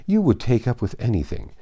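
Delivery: lightly voiced smug matron; Mrs Elton. Matron teasing a young woman she thinks she knows, smug.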